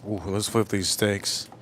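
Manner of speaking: low, slow, soft put-on voice; low mock voice. Streamer flips steaks on stream, low slow put-on voice. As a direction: croon over the steaks.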